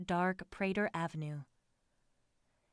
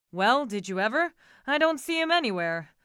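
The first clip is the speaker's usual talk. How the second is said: surprised; 4 semitones higher, 7 dB louder than usual. A narrator's reading. Driver missing, Franz exasperated.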